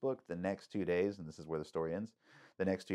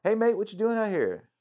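higher, louder imitation of an Australian lifeguard; an Australian accent, pitched up and bright; 14 semitones higher, 7 dB louder than usual. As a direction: greet him like a cheery Aussie surfer kid. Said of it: "Literally, the whole accent".

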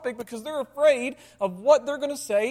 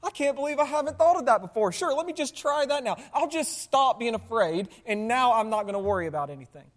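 sarcastic thought. Retold or imitated. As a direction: roll your eyes and drip sarcasm. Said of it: "And you're thinking".

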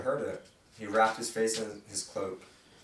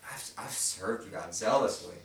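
raised, pleading cry to God. Shown as a demonstration. Preacher voicing Elijah crying out to God. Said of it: "he's crying out to God".

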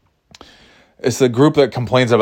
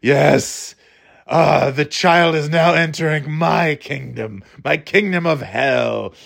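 mild devil voice; 3 semitones higher, slower than usual. Acted. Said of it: "channeling the devil or something".

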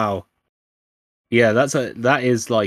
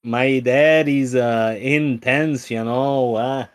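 put-on Midwest accent; 6 dB louder, much slower than usual. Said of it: "your horrible Midwest accent".

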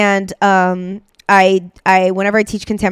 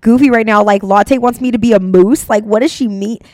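self-conscious student; 4 dB louder than usual. Retold or imitated. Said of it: "if you're like".

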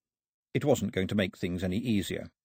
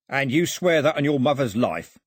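higher, louder insistence; insistent crook; 5 semitones higher, 5 dB louder than usual. Acted. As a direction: press the demand firmly as a crook. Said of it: "Foxlip insisted".

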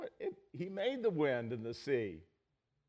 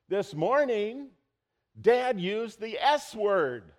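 put-on much higher, much louder, slow shouting kid; stadium voice; 9 semitones higher, 12 dB louder, slower than usual. Young Connor shouting to the whole church from the back, very loud. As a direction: bellow it across the church like a boy with no indoor voice. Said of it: "he cried out from the back".

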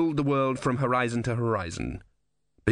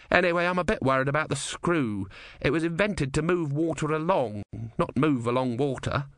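higher-pitched tinkerer with a touch of worry; mildly worried engineer; 5 semitones higher than usual. Acted. Ern frets about the screw, mildly worried engineer. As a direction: lightly voice an engineer fretting over his machine.

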